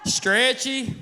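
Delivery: hammed-up enthusiasm. Hammed-up praise of a taste.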